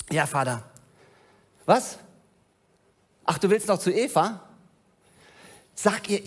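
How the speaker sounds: a hint of a childlike, delighted Adam; Adam speaking to God. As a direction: play Adam chatting joyfully with his Father in the garden. Plays Adam talking to God.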